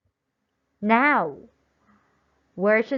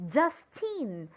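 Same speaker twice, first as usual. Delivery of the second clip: Justine with JUST louder and longer; stress on first syllable. Shown as a demonstration. Teacher modelling a noun's stress, first syllable louder in Justine. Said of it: "we pronounce the syllable just louder".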